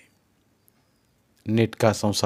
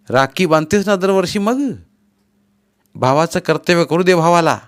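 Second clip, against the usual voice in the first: louder, higher brotherly pleading; earnest remonstrance; 7 semitones higher, 6 dB louder than usual. A narrator's reading. Brother urging his sister to let him do his duty, earnest remonstrance. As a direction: argue with your sister to accept help.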